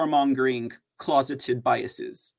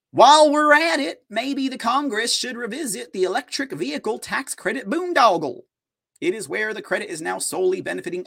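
lightly imitated Southern senator; 3 semitones higher than usual. Host reading out a senator's tweet in a mock Southern accent. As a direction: attempt a politician's Southern accent. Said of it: "a Lindsey Graham Southern accent is hard".

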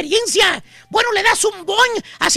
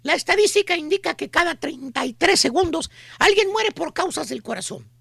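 lightly voiced mall saleswoman, softer and lower; pushy saleswoman; 4 semitones lower, 5 dB quieter than usual. Mall saleswoman selling a miracle cure, softer and lower. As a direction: play the sweet-talking pitch lady. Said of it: "la chuntara con el típico folletito".

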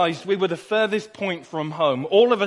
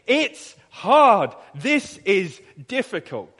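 put-on kids whining; 3 dB louder, slower than usual. Boys complaining to Mum that the walk is hard. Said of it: "there's us saying".

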